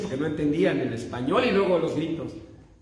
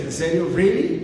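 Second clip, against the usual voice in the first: surprised question; 3 dB louder than usual. Retold or imitated. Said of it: "Me dicen".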